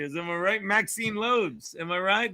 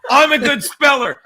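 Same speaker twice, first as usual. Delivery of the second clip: dim cartoon bear voice; 5 semitones higher, 10 dB louder than usual. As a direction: play the dumb bear who can't spell. Looney Tunes bear quote.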